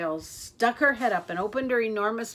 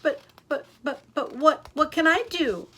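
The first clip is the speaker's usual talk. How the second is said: higher, louder tearful stammer; 7 semitones higher, 6 dB louder than usual. A narrator's reading. Crocodile crying to Katie, higher and louder. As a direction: stammer through tears. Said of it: "The crocodile began to cry too".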